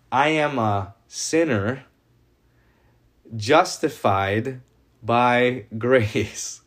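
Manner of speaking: I am a sinner justified by grace drawn out slowly with ironic weight; scare-quote irony. Shown as a demonstration. Preacher mocking the Catholic reading of the sentence, in a slow ironic scare-quote delivery. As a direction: say it as if in air quotes, slow and knowing, chuckling on grace. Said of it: "if I put the scare quotes on this".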